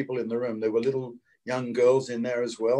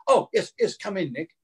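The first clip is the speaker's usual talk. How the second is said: gushing welcome; 4 semitones higher than usual. Retold or imitated. Casting lady gushing at the door.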